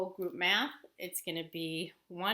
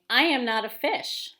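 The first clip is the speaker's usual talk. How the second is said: narwhal character; 4 semitones higher, 11 dB louder than usual. Acted. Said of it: "He's saying".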